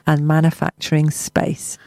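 measured local radio news read; news bulletin delivery; press release read. Acted. Resumes reading press release.

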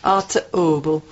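broad Yorkshire accent. Shown as a demonstration. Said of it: "Yorkshire accent".

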